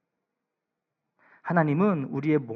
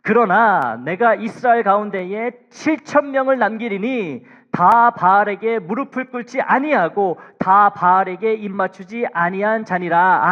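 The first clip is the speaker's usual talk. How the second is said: slow, louder, measured Bible reading; solemn scripture reading; 5 semitones higher, 10 dB louder, slower than usual. Acted. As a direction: read each word of the psalm with weight. Reads 1 Kings aloud.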